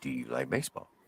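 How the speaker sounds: soft-spoken put-on voice. Retelling a big inmate speaking to a new prisoner: imitating a very soft voice. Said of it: "in the most softest voice I ever heard".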